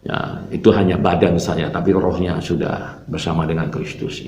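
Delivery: hushed, low imitation of a wife's reassurance; retold whisper. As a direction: reassure softly, as if in confidence. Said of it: "berbisik sama saya".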